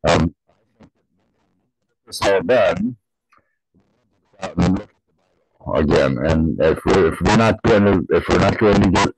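muffled behind a face mask; words muffled by a mask; talking through a mask. Real, not acted. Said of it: "I'm talking now through a, a mask".

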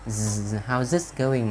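a buzzed "Z", then "How's" with that z; "How's" said with a voiced z ending. Shown as a demonstration. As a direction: show the z sound inside "How's". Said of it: "lại là chữ giờ".

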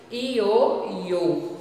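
"Ioiô" with closed final Ô; closed ô demo. Shown as a demonstration. Teacher saying the toy's name for pupils. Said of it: "som aberto ou fechado".

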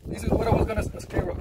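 talking through hiccups; hiccuping mid-sentence. Real, not acted. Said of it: "The hiccups".

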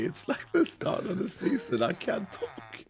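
hoarse, nearly voiceless croak; lost voice. Real, not acted. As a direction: speak with a wrecked sick throat. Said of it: "I have no voice".

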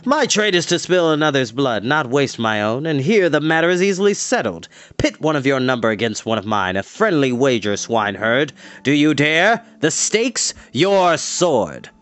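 lightly voiced villain proposing a wager; wagering Dorath. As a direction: goad him, building to a pointed dare.

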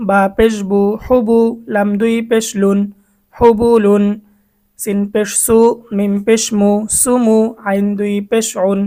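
measured letter-by-letter Arabic spelling drill; name each letter and vowel sign, then join the syllables; spelling-out recitation. Shown as a demonstration. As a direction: recite like a teacher spelling aloud for learners. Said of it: "বানান পড়েছি একবার".

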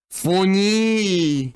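Funny in a high silly voice; high mock funny. Shown as a demonstration.

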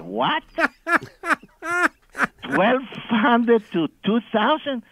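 high, incredulous repeat of the price; retold shock. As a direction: balk at the figure, stretched out and high.

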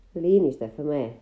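thundering command. Acted. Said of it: "răbumni Zeche".

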